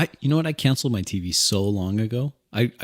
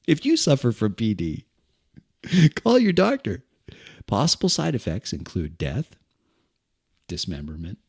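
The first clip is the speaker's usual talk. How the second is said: cheerful ad with eerie menace. Retold or imitated. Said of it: "commercial for some pharmaceutical something".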